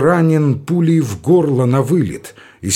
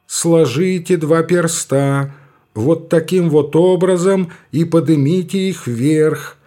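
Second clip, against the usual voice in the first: higher, slow, drawn-out intoning; drawling priest; 4 semitones higher than usual. Acted. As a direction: lead the oath like a regimental priest. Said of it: "негромкий тягучий голос".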